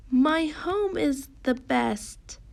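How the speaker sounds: put-on emphatic, drawn-out exclamation for young readers; excited exclamation. Shown as a demonstration. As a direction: read it with measured excitement, pitch lifted. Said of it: "saying it in an excited way".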